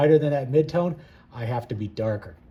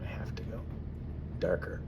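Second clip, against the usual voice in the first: breath held while painting; holding breath; 3 semitones lower, 8 dB quieter than usual. Real, not acted. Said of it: "It sounds like I'm holding my breath because I am".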